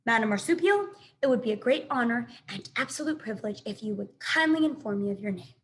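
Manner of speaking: a hint of forced politeness; robot straining to sound friendly; lightly voiced robot trying to be nice; stiff friendly robot. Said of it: "friendliest voice she could muster".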